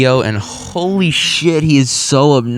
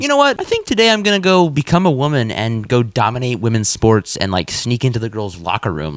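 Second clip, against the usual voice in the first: mock inner voice. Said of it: "randomly decides".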